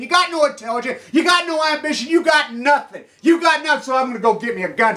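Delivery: loud, high furious yelling; furious shouting rant. Real, not acted. Ranting vlogger yelling at his viewers, furious. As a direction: scream it at them with full rage.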